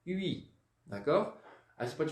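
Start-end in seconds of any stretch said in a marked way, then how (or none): 0.1-0.5 huit ending on the vowel, "üi"; huit, silent T. Shown as a demonstration. Teacher repeating the other form for pupils, huit without T. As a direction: drop the T from huit, lips pouted. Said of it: "sem pronunciar o T".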